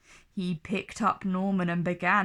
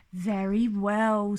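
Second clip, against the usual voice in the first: twinkling. A narrator's reading. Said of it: "with a twinkle in his eye".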